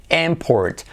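import opening on an "em" sound, IM stressed; first vowel like E. Shown as a demonstration. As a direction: say import as EMport. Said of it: "Y como E". (import como "émport", acento inicial)

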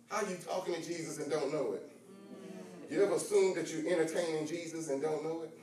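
low, soft, intimate Bible reading; quiet teaching voice. Acted. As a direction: draw them in close and low.

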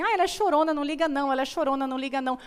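a hint of a careless mom waving it away; dismissive mother. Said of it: "vi uma mãe falando assim". (uma mãe desdenhosa, levemente imitada)

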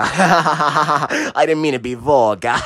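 slow, laughing through the words; laughing apology. Real, not acted. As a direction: giggle the apology out.

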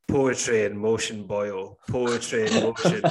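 lightly imitated broad Scottish accent; a hint of a broad Scottish accent. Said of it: "said in the most kind of broad Scottish accent".

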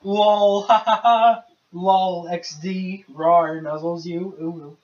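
giggly cutesy internet voice; mock-cutesy with giggles; breathy cutesy giggly. Reads cutesy internet speak.

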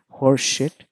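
"horse shit" as a mangled name; American mispronunciation. Retold or imitated. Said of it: "that's how they pronounce my name".

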